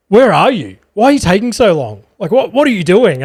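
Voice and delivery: mock mum telling off her child; switched to scolding. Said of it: "she flipped that switch".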